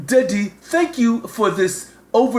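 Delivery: hammed-up shouted gratitude; a playful shout of thanks; mock shout. Shown as a demonstration. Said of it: "if you said".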